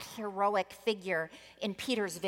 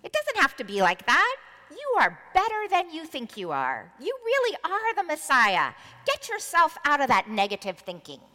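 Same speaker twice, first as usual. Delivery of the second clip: higher and louder, insistent; sharp scolding pep talk; 5 semitones higher, 8 dB louder than usual. Acted. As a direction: shake him out of it, forcefully. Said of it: "Peter said sharply".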